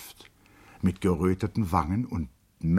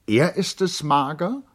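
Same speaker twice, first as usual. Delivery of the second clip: high, loud and startled; flustered; 10 semitones higher, 6 dB louder than usual. A narrator's reading. Charlotte startled by the late visitor, high and flustered. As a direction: Charlotte caught off guard, much higher and louder. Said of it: "fragte sie verwirrt".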